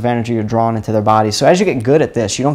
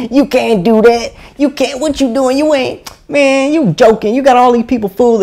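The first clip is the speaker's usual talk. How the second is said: high-pitched, jeering skeptic on the bus; high mock-scoffing heckler impression; mocking doubter; 10 semitones higher, 4 dB louder than usual. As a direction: imitate a doubter in a high, incredulous voice. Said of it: "when they'd be like".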